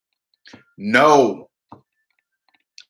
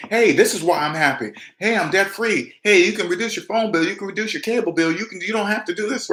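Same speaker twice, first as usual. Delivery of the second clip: higher, bright-eyed eager pitch; eager sharing; 6 semitones higher than usual. Retold or imitated. New debt-free person pitching savings to family, eagerly. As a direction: gush about being debt free to friends. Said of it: "You'll be".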